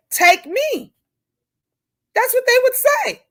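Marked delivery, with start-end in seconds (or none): 0.1-0.9 mother's plea. Retold or imitated. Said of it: "any real mother would say".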